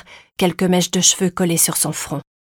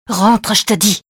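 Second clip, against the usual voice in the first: louder order, no argument allowed; commanding; 3 semitones higher, 5 dB louder than usual. A narrator's reading. Mother ordering her son indoors, commanding. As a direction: shut down a child's protest firmly. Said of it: "d'un ton qui ne souffrait pas la discussion".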